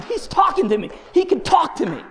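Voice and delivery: high, loud testifying cry; fervent insistence. Retold or imitated. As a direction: cry out your astonished conviction. Insisting God truly speaks.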